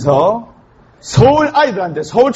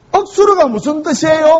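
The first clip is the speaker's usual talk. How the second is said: put-on higher childlike call; child calling; 7 semitones higher than usual. First graders calling their teacher, higher childish voice. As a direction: pipe up like a small kid.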